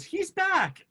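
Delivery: high, loud shout; a rebel shouting that Javert is back; shouted cue. Retold or imitated. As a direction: call it out across the barricade. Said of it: "somebody goes".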